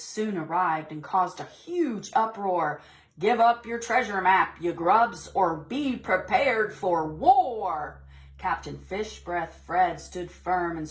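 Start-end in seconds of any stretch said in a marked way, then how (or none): 3.2-8.0 louder gruff pirate demand; threatening pirate. Acted. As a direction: growl it like a pirate raider.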